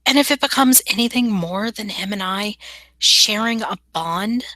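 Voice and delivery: slightly put-on, measured, sincere character voice; lightly voiced character making a careful pledge; earnest young fae woman.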